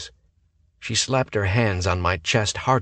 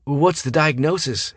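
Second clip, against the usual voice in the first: demanding; 8 semitones higher, 4 dB louder than usual. A narrator's reading. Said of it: "Hayden demanded".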